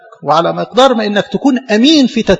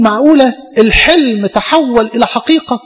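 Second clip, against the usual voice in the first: retold happy amazement, pitched higher; joyful disbelief; 4 semitones higher than usual. New priest preaching on his ordination day, joyful disbelief. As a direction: lightly act someone who can hardly believe his joy. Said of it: "مش مصدق نفسه، في منتهى الغبطة".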